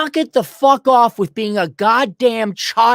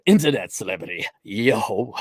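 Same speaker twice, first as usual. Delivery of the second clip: mock posh British; 10 semitones lower, 5 dB quieter than usual. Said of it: "I'm sorry".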